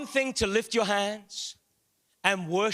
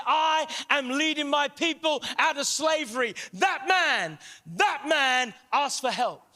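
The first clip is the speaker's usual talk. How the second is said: impassioned preaching; 3 semitones higher than usual. Real, not acted. Preaches at full force.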